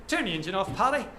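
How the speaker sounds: lightly put-on English soldier's accent; an Irish teller's take on an English accent; weird English accent. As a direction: mimic an English soldier giving an order. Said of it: "in his weird English accent".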